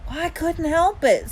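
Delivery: kind of whining. A narrator's reading. Little brother excuses himself to mom, whining. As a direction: whine it defensively. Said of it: "kind of whining".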